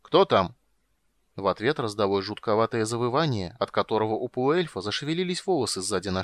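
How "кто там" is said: loud call into the dark. Acted. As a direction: call out, louder. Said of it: "он окликнул".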